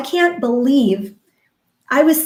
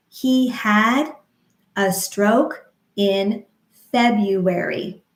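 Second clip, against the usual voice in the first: slow, syllable by syllable; slow rhythmic demo; much slower than usual. Shown as a demonstration. Speech therapist modeling a sentence slowly, rhythmic. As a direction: model it slowly for stroke survivors. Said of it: "You could tap your left hand".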